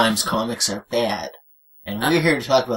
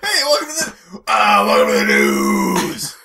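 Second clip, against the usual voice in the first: laughing through it; 3 dB louder than usual. Acted. Redoing intro, laughing.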